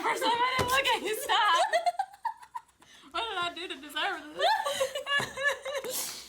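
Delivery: mock-wounded, laughing, high; laughing mock protest; sarcastic. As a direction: play it sarcastically hurt. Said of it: "That was sarcastic".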